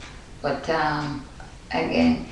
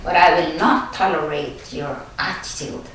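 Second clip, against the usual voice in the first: Jamaican accent. Shown as a demonstration. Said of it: "But you can hear the Jamaican accent".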